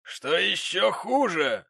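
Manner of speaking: high, loud, slow triumphant remark. Acted. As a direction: savour your point. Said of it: "с торжеством заметил джентльмен".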